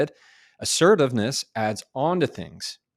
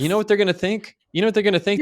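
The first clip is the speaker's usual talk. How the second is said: excited tease; 11 semitones higher, 7 dB louder, much faster than usual. Real, not acted. Teasing build-up to punchline.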